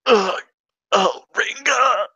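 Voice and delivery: loud, high, slow sobbing cry; overcome, cry out her name; tearful outburst. Acted. Character overcome with emotion.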